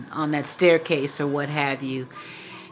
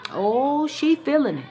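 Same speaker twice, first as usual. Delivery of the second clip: taunting glee; 9 semitones higher than usual. Retold or imitated. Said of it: "I said".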